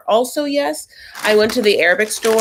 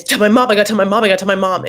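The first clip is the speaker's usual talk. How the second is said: fast, louder frantic babble; mock panicked Brandon; 5 dB louder, much faster than usual. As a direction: rattle it off like a panicking son. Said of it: "Brandon's first reaction is".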